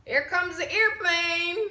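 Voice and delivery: airplane spoon game. Pretend. Feeding partner like a baby.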